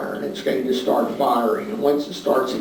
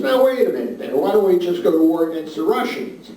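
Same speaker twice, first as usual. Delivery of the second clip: a lightly voiced Kaiser, first words much higher; mock-startled objection, pitched up at the start; taken-aback Kaiser; 4 semitones higher than usual. Kaiser objecting to his chief of staff, mildly startled. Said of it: "And the Kaiser says".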